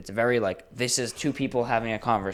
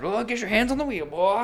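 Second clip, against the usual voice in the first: cowboy voice; 12 semitones higher than usual. Retold or imitated. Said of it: "Just like".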